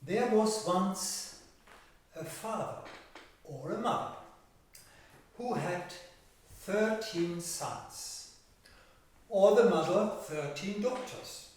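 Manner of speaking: measured fairy-tale narration with stretched key words; storytelling to children. Acted. Telling children of thirteen brothers and an old woman, storytelling. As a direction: tell it to young listeners, leaning on the pictures.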